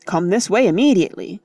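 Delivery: fast, firm command. Acted. Cecil leads the women away, brisk command. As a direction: order the women along. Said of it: "commanded Cecil".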